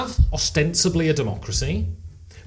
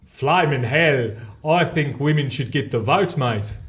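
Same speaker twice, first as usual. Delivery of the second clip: attempted South African, drawn-out opening; slow-starting South African demo; South African accent; slower than usual. Shown as a demonstration. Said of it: "And now South African".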